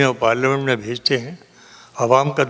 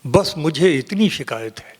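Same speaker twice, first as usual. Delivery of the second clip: measured mushaira recital with long pauses; poetry recitation; 3 semitones higher, slower than usual. Acted. Poet reciting a couplet to a mushaira audience, declaimed. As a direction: recite the verse phrase by phrase.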